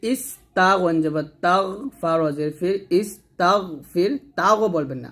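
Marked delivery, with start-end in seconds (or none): 3.0-4.1 তাগ held slowly on a gargled gh, then ফির; thick unbounced ghain. Shown as a demonstration. Teacher modelling ghain, smooth heavy gh in ইস তাগ ফির. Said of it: "গয়নটা মোটা করে উচ্চারণ". 4.4-4.7 তাগও with an extra "o" after gh; wrong bounced ghain. Shown as a demonstration. Teacher showing what not to say, echoed ending in তাগও. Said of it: "কলকলা করে ফেলি".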